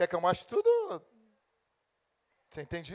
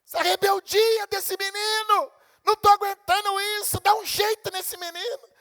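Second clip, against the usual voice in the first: high, loud exasperated complaint; hammed-up fed-up parent; whining parent; 12 semitones higher, 11 dB louder than usual. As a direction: moan to the pastor like you can't take it.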